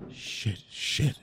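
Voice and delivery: anxious whispered curse; whispering while hiding. Acted. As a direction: whisper it in a tense rush. Hiding in closet.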